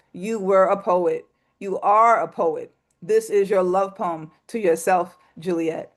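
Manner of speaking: rhythmic, heartfelt poetry performance; spoken word poem. Acted. Poet reading a love poem to herself, heartfelt spoken word. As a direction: lean into each repeated "you were".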